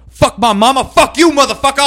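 high, explosive mock tirade; losing his mind. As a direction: imitate a calm cop suddenly blowing up. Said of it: "lost his mind".

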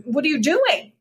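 mock panicked father pleading; alarmed dad. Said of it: "And he's like".

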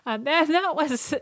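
playful third-person self-mockery; mock announcer. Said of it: "poor rendition".

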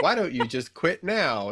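mock cruel voice, laughing; laughing taunt. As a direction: tease it through a laugh. Mocking YouTube taunt.

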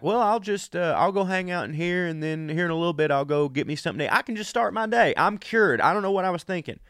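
high, quick, carefree rambling; mock breezy confidence. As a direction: talk like a man who thinks he's cured. Medicated self planning his day.

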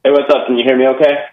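tinny, rattly speakerphone line. Real, not acted. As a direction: caller on a speakerphone. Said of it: "You sound like you're on a speakerphone".

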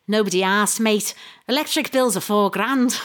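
hint of a Scouse voice quoting a tweet; Liverpudlian accent. Reading a Twitter reply in a light Liverpudlian accent. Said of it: "should I do a Liverpudlian accent".

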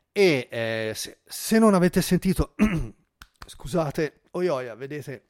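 croaky, breaking, throat scratchy; hoarse voice. Real, not acted. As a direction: voice going hoarse, clearing throat. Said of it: "vado in raucedine".

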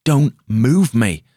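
panicked plea. Acted. Injured man begs crowd not to move him, panicked. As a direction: beg them, terrified, don't touch me. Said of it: "Spillner's brain burst apart".

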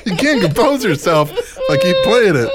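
laughing while talking; after laughing hard. Real, not acted. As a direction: talk through giggles. Laughing at replayed clip.

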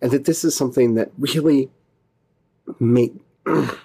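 real lump in the throat, words catching; fighting back tears mid-sentence; choked up. Real, not acted. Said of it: "Sorry, I got a little choked up there".

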